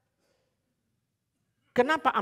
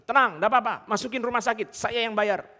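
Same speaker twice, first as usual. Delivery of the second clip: voicing boastful helper; 4 semitones higher, 5 dB louder than usual. Quoting boastful would-be savior.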